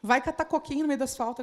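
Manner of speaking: a mild mock brush-off, "Vai" pushed out; rude dismissal. Shown as a demonstration. A leader brushing someone off rudely, mild mock. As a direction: tell them off bluntly, half in jest. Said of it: "eu posso mandar a pessoa".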